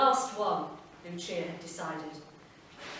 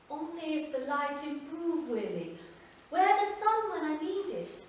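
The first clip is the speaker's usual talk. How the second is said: Lucia, wry reply; 7 semitones higher than usual. Acted. Lucia answers Willie.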